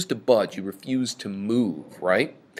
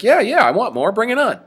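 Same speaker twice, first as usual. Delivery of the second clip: 1 defiant; 11 semitones higher, 7 dB louder than usual. Retold or imitated. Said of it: "And he's like".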